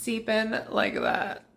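"deepen" sinking slowly into a crackle; crackling low end. Shown as a demonstration. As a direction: let the voice crackle at the bottom. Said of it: "end at a crackle".

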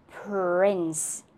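"prince" stretched, p set apart from the rest; slow split sounds. Shown as a demonstration. Teacher breaking a word into sounds, slow split sounds. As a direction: draw out "prince" slowly, sound by sound. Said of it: "Next, p".

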